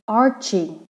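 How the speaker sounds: "arching" in two distinct syllables; split into syllables. Shown as a demonstration. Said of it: "two syllables".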